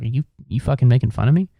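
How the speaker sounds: quick mock challenge; mock offended. Stranger thinking he is being mocked, quick offended imitation. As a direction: imitate a suspicious stranger, fast. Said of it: "they're gonna be like".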